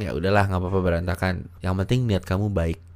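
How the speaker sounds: put-on calm reassurance to a girlfriend; reassuring. Shown as a demonstration. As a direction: gently let the mess go. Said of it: "Lebih baik kamu bilang".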